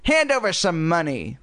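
lightly squeaky ventriloquist's voice; Slappy's dummy voice. A narrator's reading. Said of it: "she made Slappy declare".

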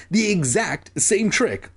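a touch of amazed excitement; cried out. Acted. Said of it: "she cried".

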